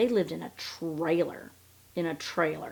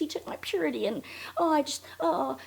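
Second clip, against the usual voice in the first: higher, softer, fast mock fluster; mocking Robin; 8 semitones higher, 4 dB quieter than usual. Repeating Robin's purity line, high soft mock fluster. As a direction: flutter through it like fake distress. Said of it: "I think was the word she used".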